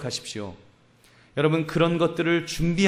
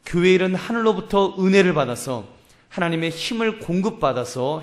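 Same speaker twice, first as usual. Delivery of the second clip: higher and louder, pressing the point; preaching at full force; 5 semitones higher, 5 dB louder than usual. Acted. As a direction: drive the warning home from the pulpit.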